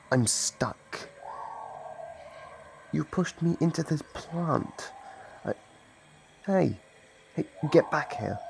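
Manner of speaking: loud, high, flustered outrage; stuck and sputtering with anger, loud; indignant yelling. Acted. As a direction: yell at the human who shoved you into the plant. Monster shoved and stuck in plant.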